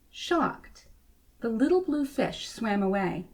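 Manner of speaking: gentle storybook reading voice; story narration. A narrator's reading. Reading a picture book to children, storybook narration. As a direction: read it like a bedtime story.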